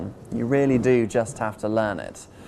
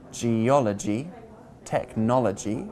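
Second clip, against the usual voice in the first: geology and technology stressed on ol, before logy; stress before ending. Shown as a demonstration. Teacher showing the logy ending, stress before it. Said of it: "we generally stress the syllable before the ending".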